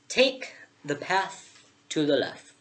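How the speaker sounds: very slow, drawn-out caterpillar. Acted. Vaping caterpillar directs the lost girl, slow caterpillar voice. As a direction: stretch the words out like a lazy caterpillar.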